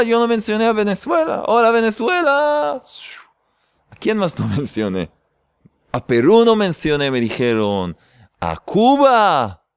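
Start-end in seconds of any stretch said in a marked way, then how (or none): 0.0-1.4 mock protest. Mock defending himself to viewers. 1.5-2.8 excited greeting. Real, not acted. Greeting a country's viewers. 8.4-9.6 drawn-out call. Real, not acted. Listing countries he forgot.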